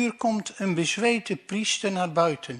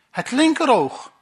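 quick answer; 7 semitones higher, 7 dB louder than usual. Acted. Jew answers instantly.

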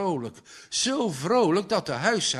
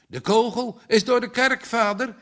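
high, louder, cheery delivery; cheerful announcement; 7 semitones higher, 5 dB louder than usual. A narrator's reading. Son announcing news to his father, cheerful. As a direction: bring out the good news brightly and high. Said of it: "sprak Klaas Monter".

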